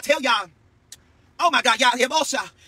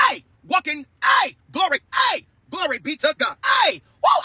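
shouting praise to God; 4 semitones higher than usual. Real, not acted. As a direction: call out glory with joy. Praise outburst on livestream.

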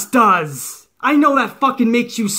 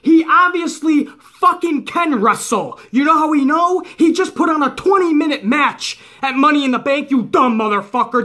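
heated rant; 5 semitones higher than usual. Real, not acted. Wrestling vlogger yelling at online haters, heated rant. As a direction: hammer the point home at the critics.

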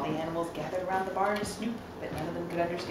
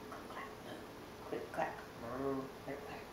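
distant sound effect; 5 semitones lower, 12 dB quieter, slower than usual. Acted. Cows typing heard from afar.

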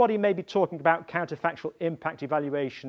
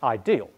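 ideal set apart, lower and deliberate; stress on ideal; 6 semitones lower than usual. Shown as a demonstration. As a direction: lean on the word ideal after a pause. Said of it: "Emphasis on the word here".

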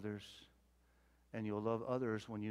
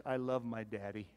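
quoting the daughter softly. Retold or imitated. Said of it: "what she says".

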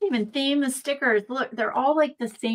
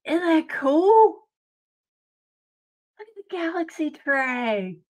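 high, loud, slow squeal of delight; thrilled; 7 semitones higher, 7 dB louder than usual. Real, not acted. Showing chat the glittery tray, thrilled squeal. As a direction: gush to chat about it.

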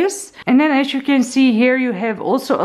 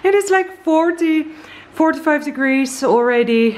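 breathless and a bit higher; talking while catching her breath; 5 semitones higher than usual. Real, not acted. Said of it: "I'm sorry, I'm out of breath".

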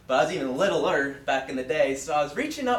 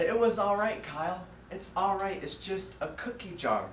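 comforting; 4 semitones higher than usual. Retold or imitated. Preacher voices mom forgiving her son, comforting. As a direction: lightly voice a mother soothing her child. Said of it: "and she comforted me".

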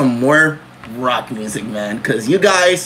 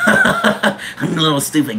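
laughing. Real, not acted. Laughing at own singing.

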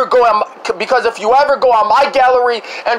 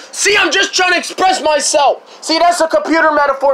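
angry yell; 5 semitones higher than usual. Real, not acted. Furious rant at dad over deleted video.

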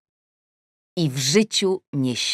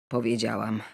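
usual speaking voice

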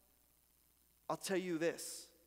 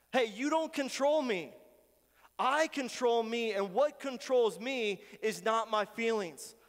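defiant self-talk; 2 semitones higher, 4 dB louder than usual. Acted. Pastor acting out telling his feelings off, firm and louder. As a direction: stand up to your own feelings. Talking back to one's feelings.

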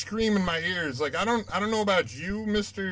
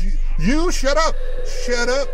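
yell; 5 semitones higher, 7 dB louder than usual. Real, not acted. Yelling at game monkey.

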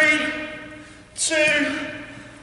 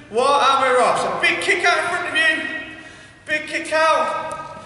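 raised, higher workout call; coaching shout; 4 semitones higher than usual. Real, not acted. Coach starting the class on big kicks, rallying shout. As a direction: launch the exercise with a shout.

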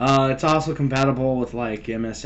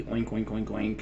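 pig oinking; 2 semitones lower, 7 dB quieter than usual. Pretend. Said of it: "it can be a piggy".

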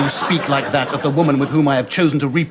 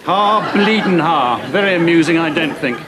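sarcastic; 3 semitones higher, 3 dB louder than usual. Acted. Mocking a bad joke.

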